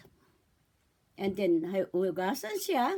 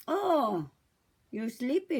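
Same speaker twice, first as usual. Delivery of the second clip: put-on talking to a baby; slower than usual. Shown as a demonstration. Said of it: "O kaya".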